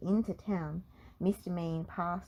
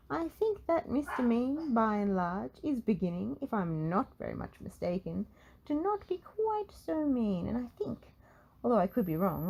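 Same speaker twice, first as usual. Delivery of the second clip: a rambling wizard, thinking aloud; old wizard mulling it over with satisfaction; musing wizard; 3 semitones higher than usual. Acted.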